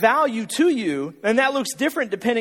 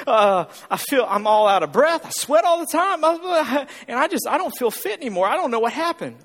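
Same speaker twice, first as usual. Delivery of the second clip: complaining gym-goer; 3 semitones higher than usual. Retold or imitated. Returning gym-goer griping after two months away, mounting mock complaint. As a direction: rattle off gripes in a rising imitated whine. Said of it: "they'll go".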